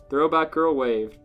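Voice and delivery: usual speaking voice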